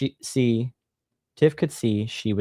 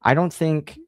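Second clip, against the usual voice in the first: put-on stammering girl; 6 semitones higher than usual. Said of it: "stammered out".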